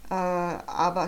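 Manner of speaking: hesitant, halting start; stammering. Acted. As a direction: stumble into an objection. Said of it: "stammelte Jonathan". (zögerlich gestammelt)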